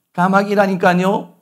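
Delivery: 조금 짜증 난 아들; slightly irritated son. Retold or imitated. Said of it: "조금 이제 말이 달라졌습니다".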